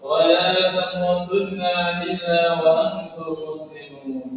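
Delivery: measured Arabic scripture recitation on a level tone; lightly chanted Quran verse. Acted.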